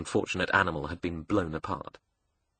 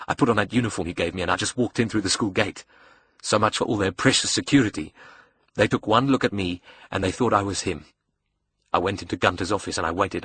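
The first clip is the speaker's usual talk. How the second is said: quick, boastful account; a touch of scornful glee; lightly voiced cocky young villain. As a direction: brag about fooling their security. Julius boasts of sneaking in.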